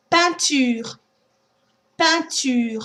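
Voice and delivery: "Peinture" with nasal pein, no N; nasal ein. Shown as a demonstration. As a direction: keep "Peinture" nasal at the start. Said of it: "Try a few words".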